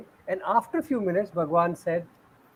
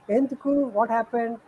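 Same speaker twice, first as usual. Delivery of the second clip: concerned mother; 3 semitones higher than usual. Retold or imitated. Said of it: "like, concerned, mother is asking".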